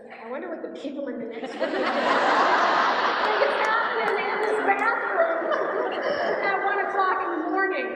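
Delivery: high, loud, laughing through the words; laughing at her own story. Real, not acted. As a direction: giggle at the thought of the neighbours. Laughing at the absurd situation.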